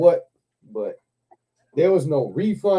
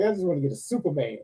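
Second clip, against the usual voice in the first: quiet plea; 8 dB quieter, faster than usual. Retold or imitated. Laughing at register chaos.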